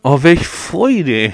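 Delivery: very slow, dry sarcasm; sarcastic. Real, not acted. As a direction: drag it out with mock delight. Dry remark on the ruined shed.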